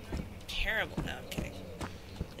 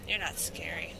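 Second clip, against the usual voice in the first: unvoiced taunting whisper; 2 semitones lower, 6 dB quieter than usual. Real, not acted. Taunting the monster in a whisper. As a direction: breathe it as a sly whisper. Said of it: "repeated in whisper".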